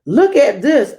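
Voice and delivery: high, loud call to Grandpa; excited shout. Acted. Child running to Grandpa with the answer, loud excited shout. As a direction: call out, thrilled with the idea. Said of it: "I shouted as I ran".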